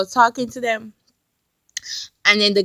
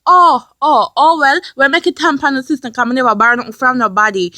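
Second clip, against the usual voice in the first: loud, indignant retort at the start, easing off; upset; 4 dB louder than usual. Retold or imitated. Arguing back at the scam caller, upset. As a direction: reenact getting fed up and arguing back. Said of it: "So I'm getting upset".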